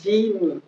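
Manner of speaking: English "genie", starting with a j sound as in jeans; "genie" with stressed long ee first; English pronunciation. Shown as a demonstration. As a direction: say "genie" slowly as JEE-nee. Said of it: "ça se prononce".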